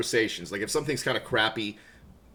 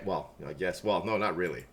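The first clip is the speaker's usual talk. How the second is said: mock glum; 7 semitones lower, 7 dB quieter than usual. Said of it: "Kinda depressed now".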